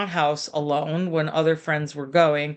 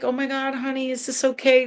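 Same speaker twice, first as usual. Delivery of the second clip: much higher, fretful mock panic; panicky overparent; 7 semitones higher than usual. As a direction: overdo the anxious parent fussing over the kid. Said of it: "That's not what I'm talking about at all".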